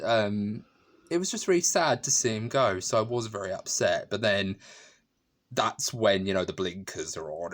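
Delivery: usual speaking voice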